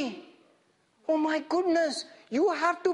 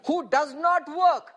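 slow, deliberate verse reading; 3 dB louder, slower than usual. Shown as a demonstration. Preacher leads congregation through the verse, slowly. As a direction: spell out each word slowly. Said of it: "I want you to read it very slowly".

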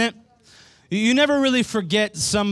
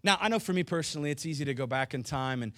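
much softer, confiding sermon voice; soft intimate preaching; 6 dB quieter than usual. Real, not acted. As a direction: draw them in close and gentle. Pastor speaking softly, intimately to church.

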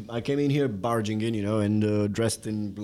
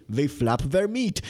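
incredulous alien; 4 semitones higher, slower than usual. Retold or imitated. Voicing incredulous aliens from story.

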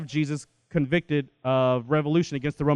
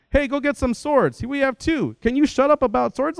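mad Jesus; 9 semitones higher than usual. Retold or imitated. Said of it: "why are you getting mad at us".

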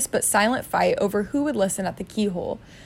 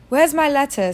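put-on higher-pitched demanding boy; Harry; 6 semitones higher than usual. Boy confronts uncle at the cupboard, demanding.

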